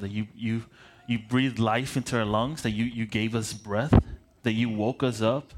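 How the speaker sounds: earnest spoken prayer, unhurried with pauses; a pastor's opening prayer for the congregation. Acted. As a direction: pray over the room before preaching. Opening prayer before the sermon.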